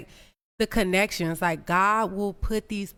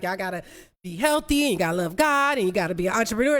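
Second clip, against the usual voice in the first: mock preachy rush; faster than usual. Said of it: "be like".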